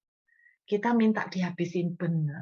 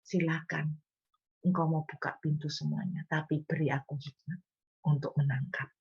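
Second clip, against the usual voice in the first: gentle prayer. Shown as a demonstration. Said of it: "Kenapa ndak doa begini".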